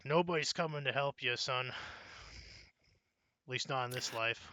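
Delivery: slow, ominous final words; grim stranger. Acted. Craghide telling the party no help is coming, grimly. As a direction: let the last line drag out darkly. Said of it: "Craghide will go".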